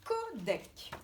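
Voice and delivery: codec slowly split as co-dec; syllable by syllable. Shown as a demonstration. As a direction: separate the two syllables of codec. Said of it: "Combien de syllabes?".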